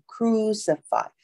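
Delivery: "crucify": first C as K, second C as S; careful pronunciation. Shown as a demonstration. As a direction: teach "crucify" slowly. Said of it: "第二个C是发S的音".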